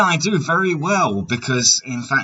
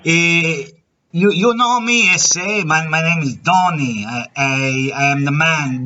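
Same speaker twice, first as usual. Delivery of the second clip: put-on a loose, wandering Mexican accent. Prank caller fooling a scammer in a put-on Mexican accent. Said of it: "My Mexican accent is all over the place".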